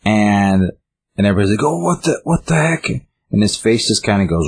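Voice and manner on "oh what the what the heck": high, startled mock outcry; retold shock. The group reacting as the poker goes through Walter, high mock shock. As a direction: act out the group's stunned disbelief.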